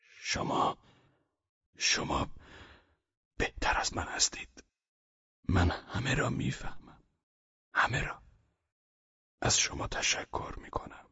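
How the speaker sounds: faltering, halting whisper; stumbling over the words, spent; stammering. A narrator's reading. The exhausted patient thanks the guest in a halting whisper. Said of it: "با لکنت زبان گفت".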